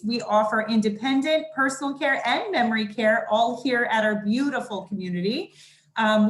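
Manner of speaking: muffled behind a mask; talking through a mask; through a face mask. Real, not acted. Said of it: "I hope you can hear me through the mask".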